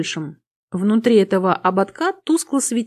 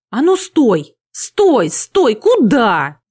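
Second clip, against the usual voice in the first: panicky shriek; 3 semitones higher, 7 dB louder, much slower than usual. A narrator's reading. Никсар calls to the vanishing succubus, shrieking in panic. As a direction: yell after someone escaping, panic creeping in. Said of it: "заверещал Никсар с отчётливой панической ноткой".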